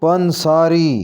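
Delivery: पंसारी opening on 'pan'; correct pronunciation. Shown as a demonstration. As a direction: say पंसारी as 'pan-saa-ree'. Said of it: "सही तलफ़ुज़ होगा". (पंसारी के 'प' पर ज़बर बोलें)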